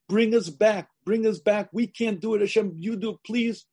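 an urgent, imploring prayer; pleading. Acted. Speaker begs God to end the long exile, pleading.

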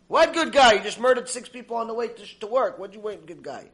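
loud, high opening outburst; playing a disbelieving accuser; acted incredulous retort. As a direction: challenge it in mock outrage.

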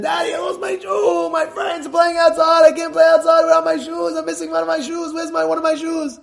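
put-on high, pleading little girl; a hint of a young daughter pleading. Daughter voiced.

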